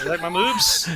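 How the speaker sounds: laughing hard, voice breaking up. Real, not acted. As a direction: crack up while asking. Laughing at man boobs joke.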